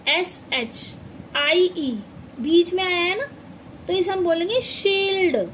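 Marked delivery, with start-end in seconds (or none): 4.6-5.5 शील्ड with a long, stretched ee; long ee in shield. Shown as a demonstration. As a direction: draw out the ee in शील्ड. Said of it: "शील्ड मतलब थोड़ा long sound में".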